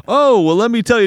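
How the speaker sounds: high, loud eager know-it-all; a keen foreigner about to explain. Retold or imitated. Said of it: "And they'll be like".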